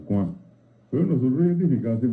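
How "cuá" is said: "cuá" with its final A nasal. Shown as a demonstration. Teacher repeating the Guaraní word, "cuá" with a nasal A. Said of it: "la A final es nasal".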